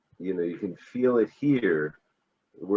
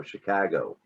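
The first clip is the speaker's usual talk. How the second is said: Chicago with a long, flat A, Chicago accent; Chicago accent, stretch the flat A in Chicago; 2 semitones lower than usual. Shown as a demonstration. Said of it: "that A is just a lot longer and flatter".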